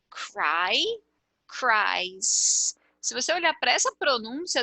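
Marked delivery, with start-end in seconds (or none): 0.1-2.8 CRY, then CRIES with just an S added; pronunciation demo. Shown as a demonstration. Teacher showing base and third person, CRY then one-syllable CRIES. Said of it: "a pronúncia aqui é".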